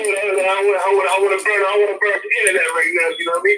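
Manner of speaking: excited. Real, not acted. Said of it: "I'm excited, so I'm gonna let me calm down".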